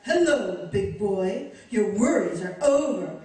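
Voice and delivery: low, teasing femme fatale voice; Lauren Bacall. Acted. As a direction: vamp it up like a film siren. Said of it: "now she wants to be Lauren Bacall".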